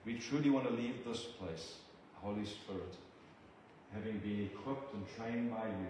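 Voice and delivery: measured, reverent prayer to God; earnest prayer. Acted. Preacher praying over the church family, earnest prayer. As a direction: pray it humbly over the congregation.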